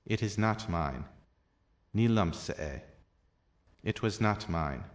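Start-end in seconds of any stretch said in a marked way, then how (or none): 2.0-2.8 Ní liomsa é with liomsa stressed as "LUM-sa"; emphatic liomsa. Shown as a demonstration. Irish teacher demonstrates the emphatic liomsa form. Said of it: "the emphatic liomsa instead of lum".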